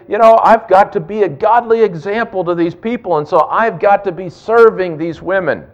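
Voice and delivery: pious leader. Pretend. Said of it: "they could say".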